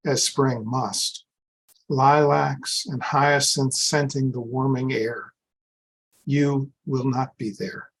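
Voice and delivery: slow, deliberate elegy recital; poetry reading. Acted. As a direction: read the verse slowly, pausing after each line. Poet reads elegy for teacher.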